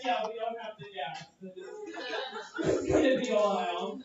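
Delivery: a slow, low, laughing put-on voice, lightly done; lightly voiced pilot. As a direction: drawl it out like a lazy pilot, half-laughing. Acts out a reply with a put-on voice.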